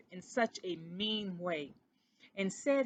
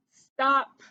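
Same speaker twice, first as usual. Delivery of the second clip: loud, high cry of stop; guilty mouse stopping his cousin's questions, loud; sharp stop; 5 semitones higher, 13 dB louder than usual. Acted. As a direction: cut him off at once. Christopher cuts off questions.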